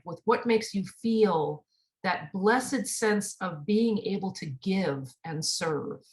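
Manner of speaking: slow, weighty sermon delivery; slow preaching. Acted. Minister drawing the lesson for the congregation, slow and weighty. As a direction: lean into each phrase like a preacher.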